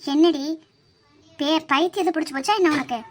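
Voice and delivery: loud, exasperated and indignant; exasperated scolding. Acted. Wife angrily scolding husband for screaming. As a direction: give it to her for waking you. Heated argument about screaming.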